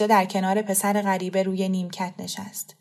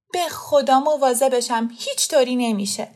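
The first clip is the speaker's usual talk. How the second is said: eager promise; 4 semitones higher than usual. Acted. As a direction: swear you'll take care of him. Fereshteh promises mother.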